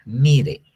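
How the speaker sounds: mire said as mi-RE, stress on the final E; Hebrew word for pasture. Shown as a demonstration. Preacher explaining the Hebrew word mire, stress on the final E. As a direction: spell it out M I R, then land the stress on the E in mire. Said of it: "M I R con acento en la E".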